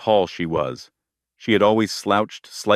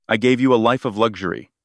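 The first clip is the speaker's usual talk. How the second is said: snapped; 3 semitones higher, faster than usual. Acted. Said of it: "Grant snapped".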